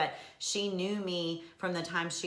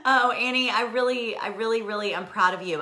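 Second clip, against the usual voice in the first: heartfelt; 5 semitones higher, 7 dB louder than usual. Real, not acted. Emotional praise of a viewer.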